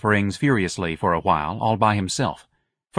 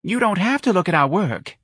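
high, hurt lady's retort; offended lady; 10 semitones higher than usual. A narrator's reading. The magnolia painter retorts to Ignatius, offended. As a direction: answer back, stung. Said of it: "an offended voice said".

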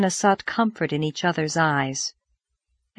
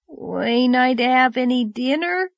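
wailing; 5 semitones higher than usual. Acted. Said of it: "wailed Davy".

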